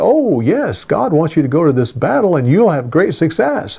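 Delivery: dry, sarcastic tone. Retelling a prophet's mocking answer to a king, imitating a sarcastic tone. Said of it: "he was saying it sarcastically".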